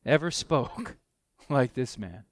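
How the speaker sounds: breaking into a laugh mid-verse; delighted laugh while reading scripture; laughing in wonder. Real, not acted. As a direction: laugh at how amazing it is.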